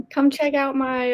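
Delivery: lightly put-on country accent. Shown as a demonstration. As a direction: try a country accent, half joking. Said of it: "Can you do a country accent?".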